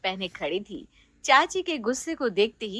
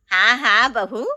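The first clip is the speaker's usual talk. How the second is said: loud aunt; 4 dB louder than usual. Acted. Chachi answers her bride.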